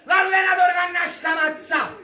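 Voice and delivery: frustrated shout. Real, not acted. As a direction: shout the name and let it drag out. Tifoso urla dopo l'azione. (urlo acuto e frustrato)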